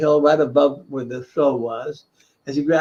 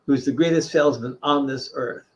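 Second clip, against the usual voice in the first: ordinary delivery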